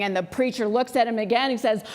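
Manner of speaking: ordinary talk, nothing marked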